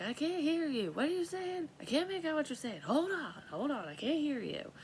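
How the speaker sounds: high, loud call to a distant window; straining to be heard across the yard. Retold or imitated. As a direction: shout up so she can hear from far below. Calling up to daughter at window.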